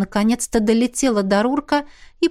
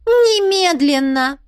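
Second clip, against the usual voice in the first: curt command; 8 semitones higher, 3 dB louder, slower than usual. A narrator's reading. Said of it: "добавила Мисси".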